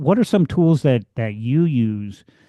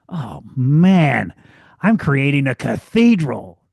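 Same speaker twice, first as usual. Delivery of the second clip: enthusiastic mason; 4 semitones higher than usual. Retold or imitated. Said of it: "different attitude towards the work".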